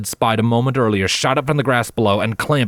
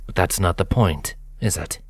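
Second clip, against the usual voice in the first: cold villain; 3 dB quieter than usual. Acted. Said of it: "Nocturne countered".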